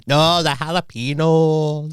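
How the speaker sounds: slow, drawn-out Runcorn woman; slow mock Runcorn counter-woman accent; Runcorn accent imitation. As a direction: mimic her Runcorn accent slowly. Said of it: "a proper Runcorn accent".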